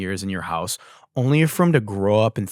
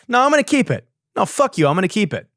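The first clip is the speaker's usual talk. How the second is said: defiant louder repeat; 9 semitones higher, 5 dB louder, faster than usual. Real, not acted. Defiant reply to himself.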